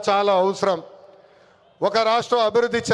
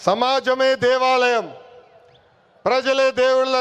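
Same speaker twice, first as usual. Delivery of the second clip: slow slogan delivery. Real, not acted. Quoting NTR's slogan, slowly.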